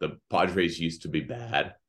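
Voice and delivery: cracking, breaking voice. Speaker talking about the Padres, voice cracking mid-sentence. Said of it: "Voice crack".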